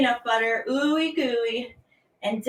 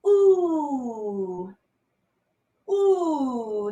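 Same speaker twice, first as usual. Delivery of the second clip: stretch ooh. Shown as a demonstration. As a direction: ease out an ooh.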